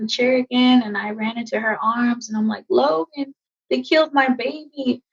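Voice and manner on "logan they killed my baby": higher, anguished pleading; a touch of sobbing grief, retold; retold crying plea. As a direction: cry out the loss to a friend. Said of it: "I'm crying into her chest".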